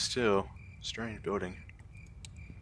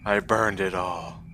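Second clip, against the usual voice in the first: grieving ruined man. Acted. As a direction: let the words fall away, hollow with loss. Despondent man voiced.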